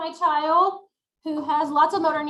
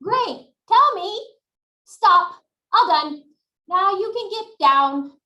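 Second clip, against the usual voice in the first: put-on higher and louder cheerful praise for a small child; encouraging child-directed voice; 4 semitones higher, 6 dB louder, slower than usual. Shown as a demonstration. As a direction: kindly prompt the child to say stop. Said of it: "I'm like".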